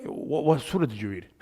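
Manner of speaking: soft, polite question to a brother; gently asking. Retold or imitated. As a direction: ask kindly so as not to hurt feelings. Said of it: "you say it nicely".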